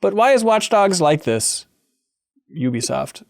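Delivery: slow, spaced-out haiku reading; hushed sparse haiku. Shown as a demonstration. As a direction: read each line of the haiku slowly. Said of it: "Here's a haiku".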